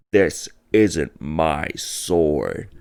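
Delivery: very slow, dramatic delivery; badass line. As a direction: drag it out like a cool hero. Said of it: "he points at the camera all badass".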